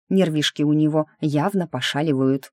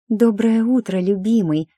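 high, loud breathy gush; breathy fake-sweet lover's greeting; breathy whisper; 6 semitones higher, 4 dB louder than usual. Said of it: "с придыханием прошептала я".

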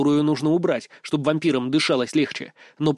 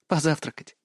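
soft, tender suggestion; affectionate; 4 dB quieter than usual. A narrator's reading. Woman helps the faltering man out, softly affectionate. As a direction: add it gently, with light affection. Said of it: "ласково добавила она".

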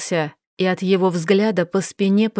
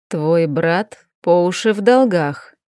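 mentoring tone; 3 semitones lower than usual. Acted. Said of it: "продолжал Крайтон менторским тоном".

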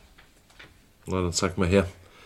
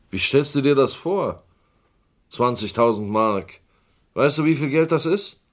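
outraged; 4 semitones higher, 4 dB louder than usual. Acted. Uncle outraged at demand.

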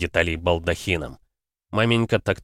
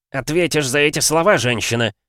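angry threat; 7 semitones higher, 4 dB louder than usual. A narrator's reading. Hot-headed threat.

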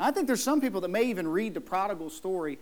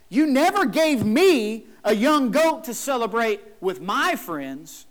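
put-on louder, slower, the older brother airing his grievance; jealous brother complaining; 3 semitones higher, 6 dB louder, slower than usual. Older brother complains to his father, louder and aggrieved. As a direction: lean on NEVER like a wounded son.

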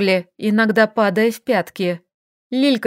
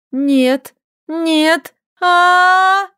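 rising higher into a loud terrified scream; panicked scream; 7 semitones higher, 4 dB louder, much slower than usual. A narrator's reading. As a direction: build from no to a full scream. Frightened girl faced by monsters.

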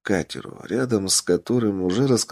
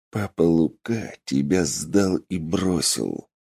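through gritted teeth; 3 semitones lower than usual. Acted. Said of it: "процедил Тапок сквозь плотно сжатые зубы".

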